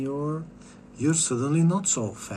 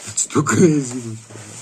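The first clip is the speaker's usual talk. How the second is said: laughing; 7 dB louder than usual. Real, not acted. Repeats it, laughing.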